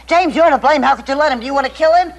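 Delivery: loud, high accusing cry; frightened wife blaming husband for letting the son drink, loud accusation; angry accusation. Acted. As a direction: turn on James and blame him. Mother accusing husband over son's drink.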